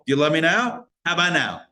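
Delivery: a light mock ad voice, pushing each time; half-hearted imitation of the Verizon guy testing love; testing God like the ad. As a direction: poke and test like the old phone ad. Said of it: "Like the old Verizon commercial".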